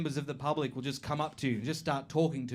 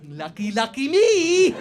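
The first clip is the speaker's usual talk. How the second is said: sarcastic glee; 8 semitones higher, 8 dB louder, slower than usual. Real, not acted. Sarcastic complaint about coworkers.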